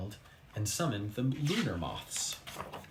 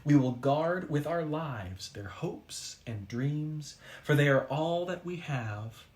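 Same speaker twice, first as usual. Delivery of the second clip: solemn oath. Acted. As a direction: speak each line like a sacred vow.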